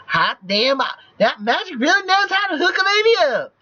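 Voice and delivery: high-pitched, whooping exclamation; excited shout. Acted. Chip mascot hollering about Black Magic's gift, excited high shout. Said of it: "Me Chip Hallelujah shouts".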